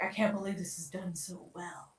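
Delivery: retold dentist in a hushed whisper; whispered quote. Dentist quoted at last visit.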